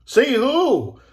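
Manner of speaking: high, loud questioning call; curious mime. A narrator's reading. A mime asks the agent who he saw, curious. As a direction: ask it loud and high, drawn up in surprise. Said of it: "asked a mime".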